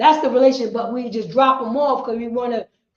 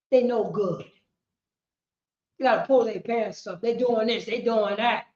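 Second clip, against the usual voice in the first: mock dismissive teacher; 3 semitones lower, 4 dB quieter than usual. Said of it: "talk like this towards".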